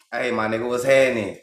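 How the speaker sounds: loose, rhythmic Ebonics greeting; Ebonics cadence. Shown as a demonstration. Showing listeners the Ebonics rhythm, relaxed greeting. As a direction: roll it out easy and musical. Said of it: "You hear the rhythm".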